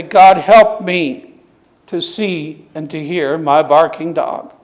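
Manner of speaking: very slow, earnest plea; slow model prayer. Shown as a demonstration. Pastor giving the congregation words to pray, slow and earnest. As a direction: pray it slowly and sincerely. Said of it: "and say".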